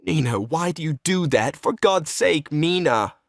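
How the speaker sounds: pleading, pitch lifting in dismay; distressed protest. Acted. Treplev protests as Nina dresses to leave, distressed. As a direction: beg her to stop.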